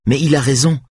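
a hint of a nervous girl doubting herself; young violinist Greta, unsure. A narrator's reading. Greta insists.

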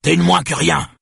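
high, loud insult; angry shout. A narrator's reading. Father raging at his crying daughter, shouting angrily. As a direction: hurl it in a rage.

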